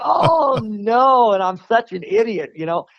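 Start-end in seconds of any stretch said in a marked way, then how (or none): 0.0-1.3 retold panic. Reacting to near crash.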